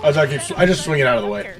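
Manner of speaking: talking while crunching; words through a mouthful of chips. Real, not acted. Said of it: "Sorry for the crunching".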